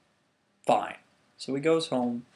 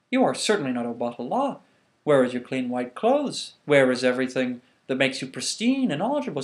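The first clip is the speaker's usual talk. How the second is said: stern rejection; 5 dB louder than usual. Acted. Guard rejects dirty Obatala.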